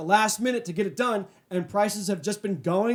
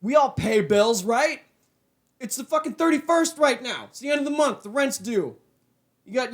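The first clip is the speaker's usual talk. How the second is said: mad rant; 2 semitones higher than usual. Real, not acted. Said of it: "I'm just so mad right now".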